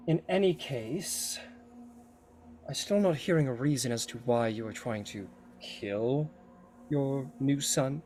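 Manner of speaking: lightly voiced haughty goddess, measured; insistent goddess. Hera demands Poseidon's reason for killing his son-in-law, lightly haughty. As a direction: press him for a reason.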